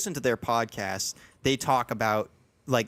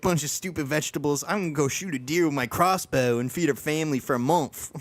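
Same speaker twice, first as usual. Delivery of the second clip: Philly guy impression; 5 semitones higher than usual. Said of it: "He's like".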